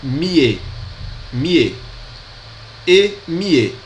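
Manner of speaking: miez said myeh, falling each time; syllable drill. Shown as a demonstration. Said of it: "fica ie".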